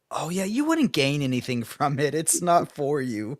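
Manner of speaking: mock-condescending, drawing out the final verdict; Jordan. Running joke about disliked books, smug and condescending. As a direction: smugly imitate a condescending co-host, slowing at the end. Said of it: "in the smuggest, most condescending tone I've ever heard".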